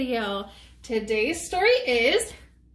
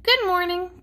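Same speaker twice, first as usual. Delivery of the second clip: higher, sing-song good morning; cheery greeting; 6 semitones higher than usual. A narrator's reading. Uncle Nacho to his parrot and monkey, cheery greeting. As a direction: greet them in a lifted storybook voice.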